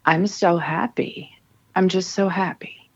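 a hint of a little girl repeating a mantra. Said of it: "she kept repeating like a mantra".

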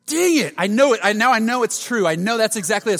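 loud, high laughing realization; loud laughing dang it moment; laughing exasperation. Real, not acted. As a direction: burst out laughing at yourself. Realizing the car was in park.

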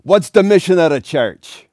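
a hint of a gruff priest calling on the class; lightly voiced professor putting the class on the spot; booming professor. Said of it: "and he goes".

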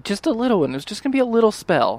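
a touch of embarrassed pleading; sheepish minimizing. Acted. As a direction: play it down guiltily. Olivia minimizes the forbidden spell.

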